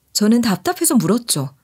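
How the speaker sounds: ordinary delivery, nothing marked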